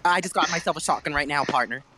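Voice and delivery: mock Southern announcer calling out pickups; twangy play-by-play, hitting partner; country accent. Imitating the teammate narrating every pickup, country accent. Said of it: "Except with a country accent".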